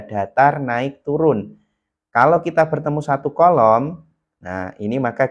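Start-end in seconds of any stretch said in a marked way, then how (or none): 0.0-1.6 DATAR level, NAIK up, TURUN down; three-tone demo. Shown as a demonstration. Teacher shows students the three-tone formula, tones demonstrated on "datar, naik, turun". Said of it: "rumus kita itu adalah tiga nada".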